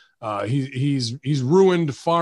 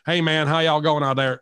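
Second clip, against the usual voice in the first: put-on Southern accent; 2 semitones higher than usual. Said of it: "as soon as we hear that Southern accent".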